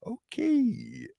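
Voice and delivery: high breathy whisper. Real, not acted. Whispering to herself while reading results. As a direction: whisper it, a little spooked. Unsettled aside.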